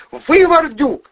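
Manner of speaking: high falsetto screech, loud and slow; falsetto yelling. A narrator's reading. Furious blonde berating Valeriy and Vovchik, high falsetto screaming. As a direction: scream insults in a shrill woman's falsetto. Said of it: "накинулась блондинка на Протасова".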